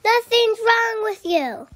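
eager rallying shout; cheerful shout. A narrator's reading. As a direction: call out to lift a sad friend. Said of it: "Orange said with a shout".

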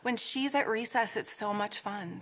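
mock let-down schoolkid, hushed and airy; imitating bummed kids. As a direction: mimic kids moping with a big sighed "oh". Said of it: "people would be super bummed".

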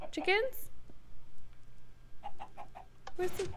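soft, high questioning call; coaxing call. Pretend. Player calls chickens onto pressure plate, coaxing call. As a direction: gently lure animals over.

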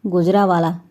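"గుజరావాలా" with the middle syllable said through the nose; nasal pronunciation. Acted. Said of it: "ముక్కుతో పలకండి".

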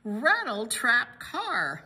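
slow, drawn-out title with swooping pitch; title announcement. Real, not acted. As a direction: roll out each word with relish. Announcing the book title aloud.

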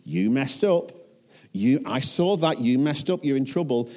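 mock accusing telling-off; lightly acted stern reprimand; finger-wagging scolding. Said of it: "God's wagging his finger saying".

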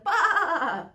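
loud, high, frightened bleat; scared lamb bleating at the wolf; crying lamb. Acted. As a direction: cry out like a lamb that smells the wolf. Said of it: "cried the little lamb".

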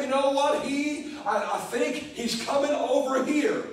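lightly voiced scheming demon, a touch of laughter; a sneaky demon whispering to its friends, half laughing; demons plotting. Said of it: "And they said".

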